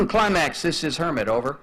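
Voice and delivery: throat cleared, then a halting radio call with a laugh; stuttering radio call. Retold or imitated. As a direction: push the call sign out past the stutter, then "over". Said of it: "so I would do".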